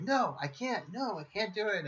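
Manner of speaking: mock shouted refusal. Mother refusing her daughter in a retold shouting match, mock yell. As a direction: retell a heated refusal without raising the volume. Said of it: "like, that shouting match".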